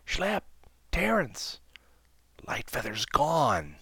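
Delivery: desperate call down from the tree; loud desperate whisper. Acted. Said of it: "in a loud whisper tinged with desperation".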